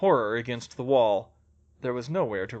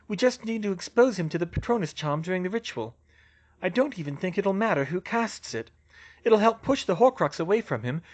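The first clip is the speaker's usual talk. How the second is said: lightly voiced Hermione, pitched up; a touch higher, reasoning it through; Hermione explaining; 5 semitones higher than usual. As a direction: work out the plan aloud.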